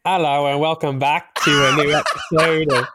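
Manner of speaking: British chimney sweep voice from the eighteen hundreds; chimney sweep accent. Pretend. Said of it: "in his, in his British accent".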